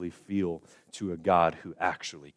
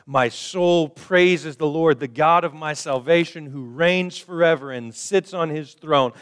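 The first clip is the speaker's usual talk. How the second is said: exultant praise; 8 semitones higher, 8 dB louder than usual. Retold or imitated. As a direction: lift it up like a triumphant psalm. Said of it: "David is saying things like".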